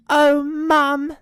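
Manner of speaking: put-on high, loud child's voice; relieved little joey. Jenny greets returning mum.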